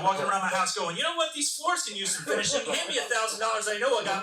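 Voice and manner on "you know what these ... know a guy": subcontractor son. Retold or imitated. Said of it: "like he's a subcontractor now".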